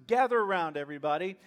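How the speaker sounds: loud, strained call to a crowd; tense Jesus. Retold or imitated. Jesus turns to the crowd after the rebuke, tense. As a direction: summon everyone forcefully, still worked up. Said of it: "hear the tension in his voice".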